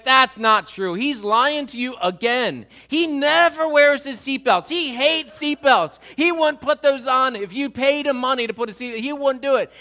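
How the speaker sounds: high, loud tattling outburst; indignant wife. Acted. Wife exposes husband's seatbelt lie to officer, loudly indignant. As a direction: cut in exasperated, building to a high, loud rant.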